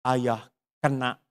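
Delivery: usual speaking voice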